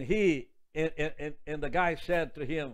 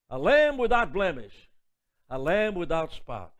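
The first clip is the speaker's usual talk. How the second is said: lamb pressed hard, louder; emphatic repetition; 5 dB louder than usual. Shown as a demonstration. Preacher repeating the verse to the congregation, emphatic. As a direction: drive home the words lamb without blemish. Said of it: "repeats verse for emphasis".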